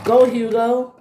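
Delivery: high-pitched urging call; shout. Acted. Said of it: "they shouted".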